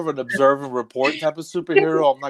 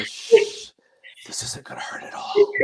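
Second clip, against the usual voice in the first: soothing whisper to a patient. Retold or imitated.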